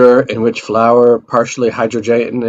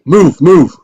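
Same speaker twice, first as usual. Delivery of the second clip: shouted order, higher and louder; urgent shout; 6 semitones higher, 5 dB louder than usual. Acted. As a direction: bark it out urgently.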